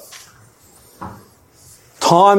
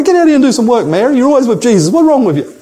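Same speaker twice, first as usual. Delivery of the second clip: mock annoyed Martha; 6 semitones higher, faster than usual. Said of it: "get annoyed with her and say".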